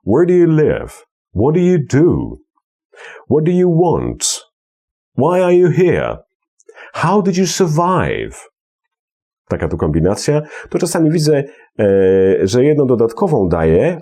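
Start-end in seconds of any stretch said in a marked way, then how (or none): 0.1-8.4 high arched melody falling on the last word; first and last stressed. Shown as a demonstration. Teacher drilling questions, first and last word stressed. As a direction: stress first and last, glide over the middle. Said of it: "Pierwsza i ostatnia".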